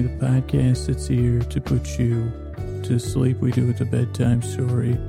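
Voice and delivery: slightly subdued, unhurried bedtime-show delivery; sleepy bedtime intro. Acted. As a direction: ease listeners gently toward sleep, drawing out the list. Bedtime podcast intro over music.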